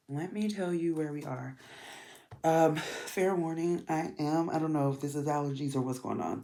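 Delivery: stuffy nose; talking through a blocked nose. Real, not acted. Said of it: "I'm stuffy right now, so that's why I sound like this".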